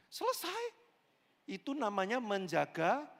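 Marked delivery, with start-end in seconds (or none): 0.1-0.7 squeaky punchline. Acted. Sudden high punchline.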